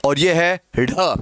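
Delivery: ढ said slowly and carefully at the end of the phrase; slow demo of ढ. Shown as a demonstration. Teacher showing students the sound, slow and deliberate. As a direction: draw out the phrase slowly and land clearly on ढ. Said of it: "इनका उच्चारण समझ लेना".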